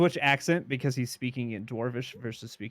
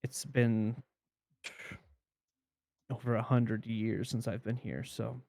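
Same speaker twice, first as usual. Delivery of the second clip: put-on Scottish accent. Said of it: "I know it's a terrible Scottish accent".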